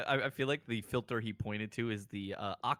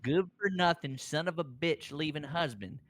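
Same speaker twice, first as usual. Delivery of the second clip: bitter scorn; 4 semitones higher, 5 dB louder than usual. Acted. Manager scorns ex-husband.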